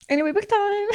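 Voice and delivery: real cheerful yell, book time!; excited shout. Real, not acted. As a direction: shout it out to jump topics. Abrupt cheerful switch to books.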